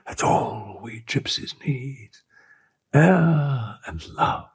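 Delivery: high, impassioned, pleading declaration; passionate pleading. A narrator's reading. The girl offering herself to her captain, passionately pleading. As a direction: pour out devotion, begging.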